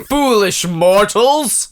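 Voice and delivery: slow, mock villain boom; lightly hammed-up evil overlord; dark lord. Villain reveal.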